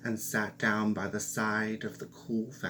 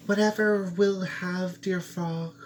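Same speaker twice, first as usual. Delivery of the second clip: high and louder, eager to please; eager princess; 8 semitones higher, 5 dB louder than usual. Acted. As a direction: blurt it out high and bright.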